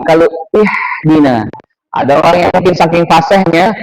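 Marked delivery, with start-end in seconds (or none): 0.5-1.5 "ihdina" with a sharp, rasped Arabic h, held long; small H. Shown as a demonstration. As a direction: tighten the throat on the h of "ihdina". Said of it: "berbeda dengan H".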